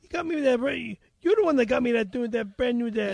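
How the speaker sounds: put-on stumbling improvised Boston accent. Muddling the car scene, Boston accent. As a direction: fumble through it in Boston speech. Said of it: "You do an amazing Boston accent".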